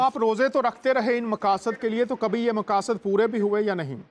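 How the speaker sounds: choppy, dropping-out call audio; breaking up space radio. Real, not acted. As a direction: voice cutting out on a bad phone line. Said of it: "बहुत आवाज़ cut रही है sir आपकी".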